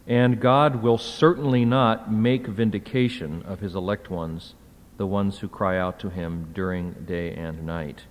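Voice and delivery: "certainly not" said firmly, then dropping away; read straight as statement. Shown as a demonstration. Lecturer reading verse seven wrongly as a statement, falling tune. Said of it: "If you read it straight, uh, as a statement".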